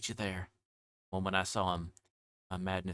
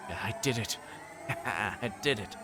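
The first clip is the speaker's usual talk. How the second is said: laughing slow triumph; slower than usual. Acted.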